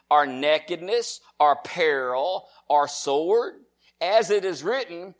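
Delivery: slow, measured pulpit Bible reading; declaimed verse with stretched key words; scripture reading. Acted. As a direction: set each item apart with a deliberate pause.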